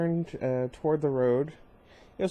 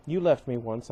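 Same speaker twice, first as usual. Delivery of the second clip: cold. Acted. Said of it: "in a cold voice".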